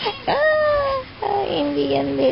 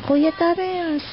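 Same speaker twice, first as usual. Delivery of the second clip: a hint of a bossy little girl, higher; quoting the baby; 6 semitones higher, 3 dB quieter than usual. Mother quoting what her baby told big brother, hint of a bossy little girl. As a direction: shush big brother like a small child. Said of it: "Sabi mo nga".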